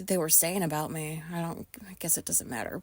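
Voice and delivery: breathy whispered aside. Real, not acted. Telling viewers what the staff might have said, whispered. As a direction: drop to a whisper as if embarrassed. Trails off about gossip.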